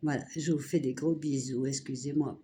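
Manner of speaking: talking through swollen tonsils; sore throat voice. Real, not acted. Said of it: "je suis quand même bien prise". (voix prise, gorge douloureuse)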